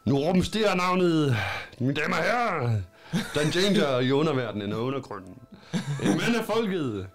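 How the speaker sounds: lightly voiced master of ceremonies; showman addressing crowd. Character addresses the tavern's ladies and gentlemen, lightly voiced showman. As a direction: work the crowd like a showman, with pauses.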